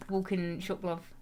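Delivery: casual Northern English quote; homely put-on Northern English; Northern English accent. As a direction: drop into a light Northern accent. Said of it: "I always do Northern".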